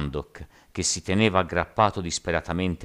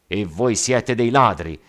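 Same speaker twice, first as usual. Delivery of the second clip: loud, raised-pitch accusation; shouted retort; 5 semitones higher, 9 dB louder than usual. A narrator's reading. Captain answering his accusers, shouting. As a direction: hurl the insult back at the crowd. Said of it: "gridò il capitano del Centauro".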